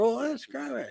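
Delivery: put-on high, stiff German accent; German captain accent. German captain quizzing guests at his table, high stiff German accent. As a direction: play the German captain holding court. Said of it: "I remember his accent".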